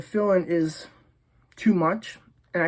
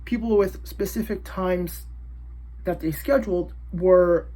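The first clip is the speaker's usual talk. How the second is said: numb lips, careful words; numb mouth. Real, not acted. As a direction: speak through a numbed mouth. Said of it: "my face is numb".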